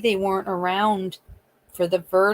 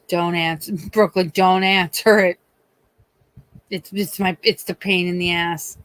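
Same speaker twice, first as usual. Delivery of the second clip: exasperated warning; 5 dB louder than usual. Retold or imitated. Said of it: "Buster's probably like".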